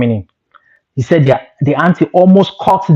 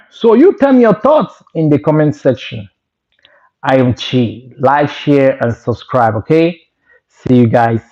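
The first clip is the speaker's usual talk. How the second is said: whispered sign-off. Acted. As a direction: lean in close and whisper the sign-off. Outro sign-off.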